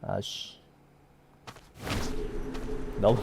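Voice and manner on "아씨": muttered curse, much softer; cursing under breath. Real, not acted.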